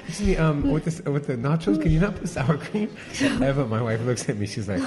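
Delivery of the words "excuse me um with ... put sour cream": higher, louder re-enacted customer order; retold polite request. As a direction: act out flagging a server with a request. Acts out his order to server.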